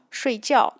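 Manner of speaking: 睡觉 said as shuìjiào, both syllables falling; 睡觉 in falling fourth tones; fourth tone demo. Shown as a demonstration. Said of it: "If I'm using the fourth tone".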